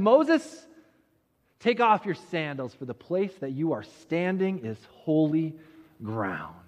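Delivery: hint of a solemn divine voice, falling away; voice from the bush. Voice from the burning bush addresses Moses, solemn. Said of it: "the voice says to him".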